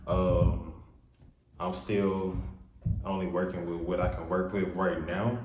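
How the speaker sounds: echoey room sound; reverb. Real, not acted. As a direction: voice ringing in a bare room. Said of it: "sorry for all the reverb".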